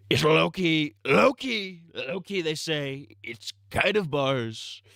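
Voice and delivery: a lightly voiced joking slang talker; mock slangy voice. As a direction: put on a silly zoomer voice.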